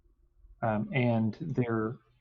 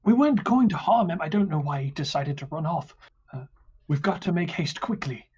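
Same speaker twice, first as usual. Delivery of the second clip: guard voice; 5 semitones higher, faster than usual. Acted. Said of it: "he says".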